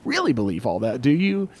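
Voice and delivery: sly, hushed inner voice of doubt; doubting flesh. Acted. Preacher voices his flesh on Monday morning, doubting. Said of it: "my flesh wants to go".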